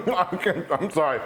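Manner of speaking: talking through a mouthful; words squeezed round a big bite; mouth full. Real, not acted. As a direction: apologize with your mouth stuffed with food. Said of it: "I stuffed my mouth full".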